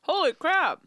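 talking around ice in mouth. Real, not acted. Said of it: "I have ice in my mouth".

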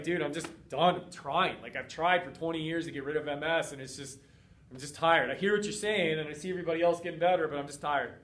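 imitating an exhausted, defeated patient; worn-out and tired. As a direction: sound like you've given up trying. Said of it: "And the last one is when you're tired".

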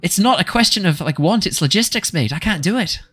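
protesting, nearly pleading; flustered barkeep. Acted.

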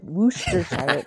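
Worcestershire slowly as "WOOS-ter-shire", R sounded; imitated pronunciation. Repeating what she heard Mama Bear say, slow "WOOS-ter-shire". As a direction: say Worcestershire drawn out, "shire" like "fire". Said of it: "I feel like that's what she said".

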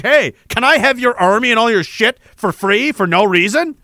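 mock someone brazenly asking for handouts; exaggerated imitation of an entitled asker; mock cheeky beggar. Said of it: "start be like".

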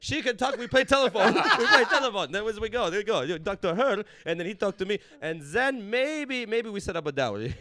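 loud, laughing hammed-up Arab accent. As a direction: ham up the macho uncle bargaining. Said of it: "Arab accent".

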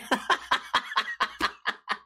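airy wheezing laugh, no voice; breathless laugh. Real, not acted. Laughing about threatening the employee.

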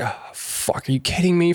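mock exasperated disbelief. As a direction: act out people's incredulity. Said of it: "Everyone's like".

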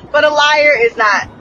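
heated. Real, not acted. Heated rant.

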